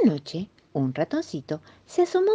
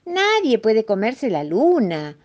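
slow, higher mock at the mouse; amused mole; 5 semitones higher, 4 dB louder, slower than usual. Mole laughs off the mouse's confession, mildly amused. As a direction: draw it out with a touch of amusement. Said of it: "dijo el topo riéndose".

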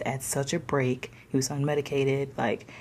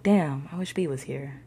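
mildly wistful, back down from excitement; kinda sad. Retold or imitated. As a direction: say it with subdued longing. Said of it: "And I kinda got sad".

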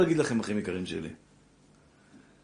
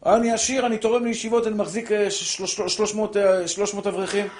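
boastful rich man; 4 semitones higher than usual. Retold or imitated. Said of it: "מה אתה שווה".

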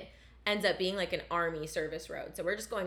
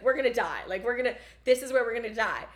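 louder, higher panicked plea, half-performed; imitating her sobbing panic; 4 semitones higher, 6 dB louder than usual. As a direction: replay the tearful "I don't wanna die" moment. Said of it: "like, sobbing".

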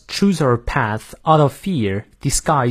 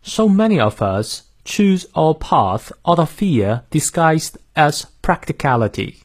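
slow British model reading, r-less "fear"; British accent; 3 semitones higher than usual. Shown as a demonstration. Teacher modelling the sentence for learners, British accent. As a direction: read it in careful British English, "pahth" for path. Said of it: "英式发音，我来念两遍".

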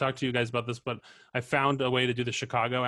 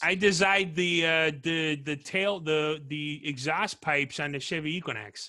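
Chicago accent. Shown as a demonstration. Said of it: "Chicago accent".

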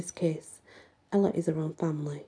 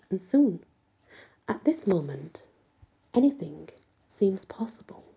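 expressive first-person storytelling; story narration. A narrator's reading. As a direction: read the chapter aloud as the heroine telling it. Reads a first-person novel aloud.

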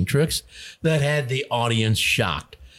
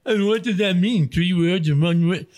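mock puzzled listener, lightly voiced; confused listener; 5 semitones higher than usual. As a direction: play a baffled listener asking, a bit higher. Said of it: "for those people who sit there scratching their head going".

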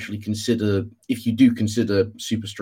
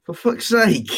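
real frustration, pitched way up; high exasperated cry; exasperated outburst; 11 semitones higher, 4 dB louder, slower than usual. Real, not acted. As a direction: burst out, fed up with the dropouts. Cut out again mid-sentence.

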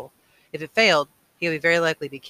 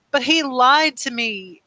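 high, loud, drawn-out wail; weeping protest; 9 semitones higher, 7 dB louder, much slower than usual. A narrator's reading. Boy betrayed by his father, weeping protest. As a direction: cry it out slowly, voice pitched up. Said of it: "Jonas wept".

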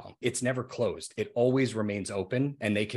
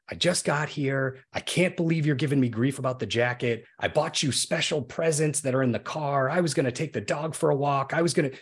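mock blow-up; 5 semitones higher than usual. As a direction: play the offended guest, pitch climbing. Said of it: "they could blow up at you".

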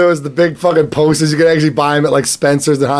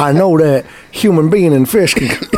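put-on Texan accent. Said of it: "this is with his accent".

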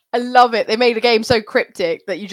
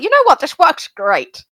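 mock confident; 5 semitones higher than usual. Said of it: "We're like".

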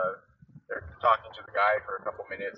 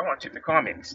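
higher voice, badly faked Boston accent; terrible Boston accent; 5 semitones higher than usual. Boston woman repeating her offer to tip, in a bad Boston accent. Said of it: "excuse my terrible Boston accent".

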